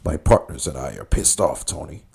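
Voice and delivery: low, measured mock crime boss; lightly voiced movie drug lord; Sosa from Scarface. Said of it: "He was like".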